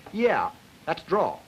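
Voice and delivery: slow, stretched yeah; drawled yeah. Shown as a demonstration. Lecturer contrasting drawl with clipping for students, slow drawl. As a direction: let yeah linger long. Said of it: "I can say".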